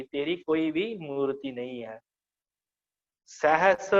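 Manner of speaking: ordinary talk, nothing marked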